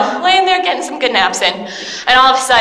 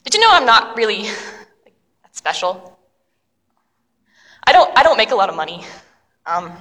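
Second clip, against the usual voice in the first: humble confession; 4 semitones lower than usual. Acted.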